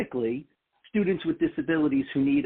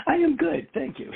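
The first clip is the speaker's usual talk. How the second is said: laughing. Real, not acted. Guest laughs answering.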